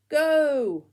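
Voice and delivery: shout. Acted. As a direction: bark the launch signal. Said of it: "shouted Bramwell Brown".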